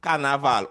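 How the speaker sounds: "Carnaval" with open ah in each syllable; open vowels. Shown as a demonstration. Teacher repeats Patois example, open vowels.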